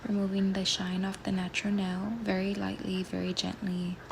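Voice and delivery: hoarse morning whisper, just woken; rough, sleepy voice getting over a cold; raspy whisper. Real, not acted. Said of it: "Please excuse my voice".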